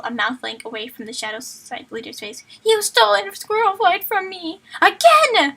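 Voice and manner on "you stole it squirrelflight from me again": villain rage. Acted. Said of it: "sounds like the Watcher".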